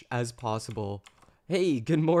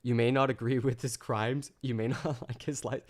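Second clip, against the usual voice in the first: laughing. Retold or imitated. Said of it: "instead of".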